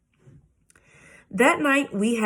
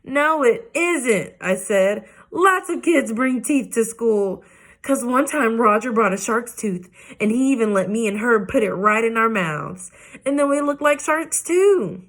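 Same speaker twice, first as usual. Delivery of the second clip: whining; 4 semitones higher than usual. Acted. Junie B whining at her parents about teeth. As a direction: whine like a stubborn little girl. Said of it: "I whined at those two".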